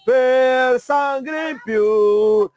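slow hammed-up rally cry; drawn-out shout. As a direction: stretch it into a big shout. (grito alargado)

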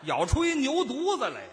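mock vendor cry. Partner repeats bun seller's line, mock hawking cry. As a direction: lightly parody the bun seller's holler.

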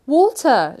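loud, high, impatient cry; old man shouting. A narrator's reading. Old man shouting at servants a third time, impatient shout. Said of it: "shouted the old man for the third time".

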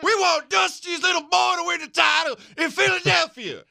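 high shouted fan demand; hammed-up redneck fan yelling; rowdy fan shout. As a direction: yell it like a die-hard wrestling fan.

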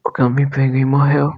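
slow, dramatic anime dub voice. Acted. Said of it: "essa voz de dublador de anime".

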